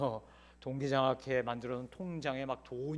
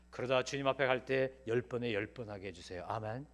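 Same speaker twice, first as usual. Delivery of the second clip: gentle hopeful prayer; 4 semitones lower, 4 dB quieter than usual. Shown as a demonstration. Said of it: "열 번에 세 번만 치면".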